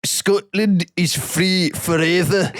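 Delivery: high, slow, hammed-up Scottish rallying cry; the speaker's Scottish accent. Imitating an absent Scottish friend's reaction to the King, hammed-up Scottish. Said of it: "Can you do the accent?".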